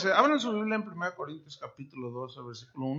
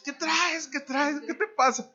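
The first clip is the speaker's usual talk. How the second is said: mock concerned asking; 9 semitones higher than usual. Friend asks what's wrong.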